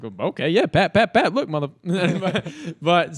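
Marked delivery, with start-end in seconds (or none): 0.0-1.7 high, loud, laughing calls of Pat; hammed-up excited yelling at Pat; mock excited calling. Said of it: "I was like".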